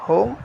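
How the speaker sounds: होम set apart, gliding upwards; rise on होम. Shown as a demonstration. Teacher isolating the first syllable, होम rising. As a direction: lift the pitch through होम. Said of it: "एक rise आया ऊपर की तरफ".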